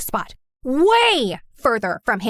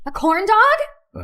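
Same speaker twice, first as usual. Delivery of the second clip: indignant; 8 semitones higher, 5 dB louder, much slower than usual. Acted. Indignant retort.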